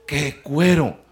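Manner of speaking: "¡Qué cuero!" said through a laugh; laughing quote. Retold or imitated. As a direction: quote the catcall while chuckling. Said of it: "unos jóvenes dijeron".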